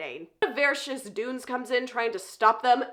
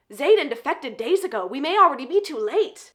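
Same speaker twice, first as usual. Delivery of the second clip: louder, urgent act of alarm; put-on alarm; 3 semitones higher, 5 dB louder than usual. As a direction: sound the alarm as if playing it up. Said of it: "adding on to this act goes".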